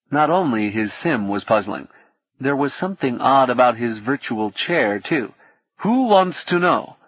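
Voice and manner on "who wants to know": lightly voiced gruff old man with South African accent; a hint of a suspicious South African hacker. A narrator's reading. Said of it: "unmistakable South African accent".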